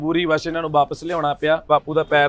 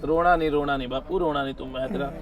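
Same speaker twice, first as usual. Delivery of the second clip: soft, hushed reassurance; consoling; 3 semitones lower, 7 dB quieter than usual. Real, not acted. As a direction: gently soothe someone who is crying. Consoling a crying old man. (ਹੌਲੀ ਆਵਾਜ਼ ਵਿੱਚ ਦਿਲਾਸਾ)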